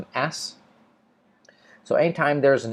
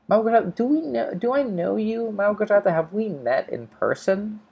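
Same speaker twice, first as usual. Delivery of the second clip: puzzled surprise; 10 semitones higher than usual. Real, not acted. Puzzled reading of a name.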